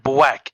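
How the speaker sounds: "black" said as "bwack", W for L; "black" turned into "bwack"; imitated speech quirk. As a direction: mimic brother's "black" with W in place of L. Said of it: "'Cause that's how he talks".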